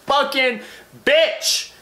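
calm turns into a yelled curse; sudden shout. Shown as a demonstration. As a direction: blow up at the end as a joke. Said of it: "Except don't say it like that".

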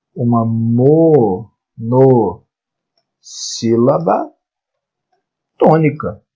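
"monossílaba" stretched very slowly, pausing between syllables; very slow, segmented teaching of "monossílaba tônica". Shown as a demonstration. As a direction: draw out each syllable, then set "tônica" apart. Teacher spells out the term slowly.

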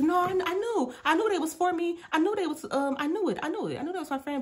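a high shocked voice that sinks to a murmur; stunned realization. Retold or imitated. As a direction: replay the moment you caught on, trailing away. Quoting own stunned realization.

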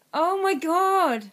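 hammed-up Black Country drawl; mock Black Country accent. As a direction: drag it out like a Wolverhampton yam yam. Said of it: "And it goes like".

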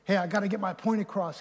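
quick, pushy interjection; harsh, quick. Acted. Example of ungracious speech to a congregation, quick and pushy. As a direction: rush it out to get the point in. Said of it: "If you got harsh, quick".

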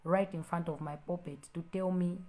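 quiet reproach. Real, not acted. Pastor softly reproaching the commenter.

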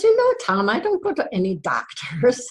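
high opening, lightly acted wifely protest; mildly indignant refusal. Wife refusing the doctor to her husband, mock indignant. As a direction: put your foot down, playfully acted.

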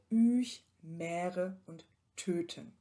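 Mähre und Töten slow with long held vowels; long monophthong examples. Shown as a demonstration. Lecturer slows down the example words, long vowels. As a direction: draw out each vowel. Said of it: "Beispiele hier".

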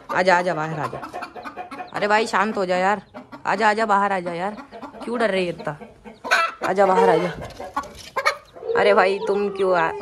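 loud coaxing call to a hen. Real, not acted. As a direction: call her out of the cage, urging. (मुर्गी को ज़ोर से पुकारते हुए बाहर बुलाना)

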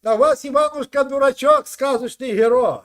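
loud, heated bragging; loud heated lecture; loud boast. Real, not acted. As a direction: boast over him loudly. Heated boast about Ukrainian hero.

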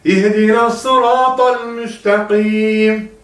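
sıratal with the ta burst out sharply, slow; popped ta. Shown as a demonstration. Teacher shows students how to burst the ta. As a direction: pop the ta in sıratal. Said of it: "Ta'yı patlatın".

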